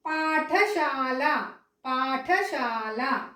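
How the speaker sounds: పాఠశాల very slowly, puff of air on ఠ; aspirated, drawn out. Shown as a demonstration. Teacher dictating for spelling, slow breath-marked పాఠశాల. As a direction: stretch paa and shaa in పాఠశాల. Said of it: "అప్పుడు మనము ఈ ఠ రాయాలి".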